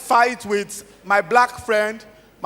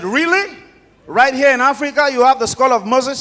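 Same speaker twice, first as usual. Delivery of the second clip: higher-pitched, incredulous questioning; astonished disbelief; 5 semitones higher, 4 dB louder than usual. Acted. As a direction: act the amazed buyer who can hardly believe it. Astonished buyer questions seller's claim.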